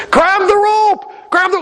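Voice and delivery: high, slow shouted order; shouting down. Acted. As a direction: call over the rotor noise. Helicopter pilot shouts down.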